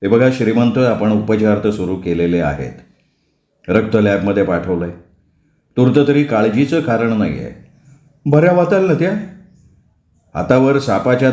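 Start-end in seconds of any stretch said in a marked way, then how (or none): 0.0-7.7 lower, steady reassuring doctor; lightly voiced doctor, lower; calm doctor. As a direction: settle a scared husband.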